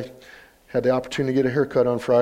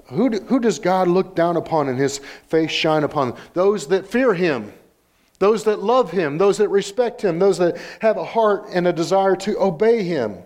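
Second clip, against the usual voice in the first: raised, insistent pulpit cadence; emphatic preaching; 6 semitones higher than usual. Real, not acted. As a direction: drive through a rhythmic list. Preacher building a list.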